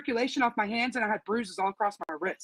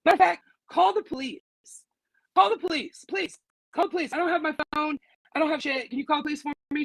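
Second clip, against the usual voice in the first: raised pitch, pressing demand for the police; urgent plea; 4 semitones higher, faster than usual. Retold or imitated. To the female guard, an urgent high-pitched demand for police.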